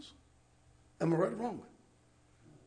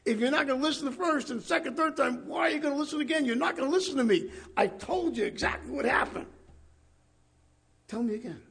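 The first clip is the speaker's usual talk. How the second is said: higher and louder, exasperated at being asked again; fed-up healed man; 6 semitones higher, 4 dB louder than usual. Retold or imitated. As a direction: lose patience with people who won't listen. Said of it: "He said".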